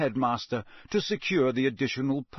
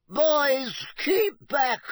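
sharp, loud, high command; barked; 14 semitones higher, 5 dB louder, much slower than usual. Acted. Teacher ordering the boys away from the unicorn, barked loud. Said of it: "barked Professor Grubbly-Plank".

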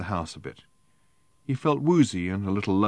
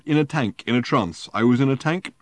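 put-on drunken rambling; 6 semitones higher, 5 dB louder than usual. Drunk Arthur slurring his tale.

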